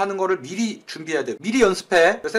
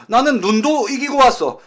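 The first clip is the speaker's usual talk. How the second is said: slow mock tough guy; 5 semitones higher, 5 dB louder, slower than usual. Acted boast of the man.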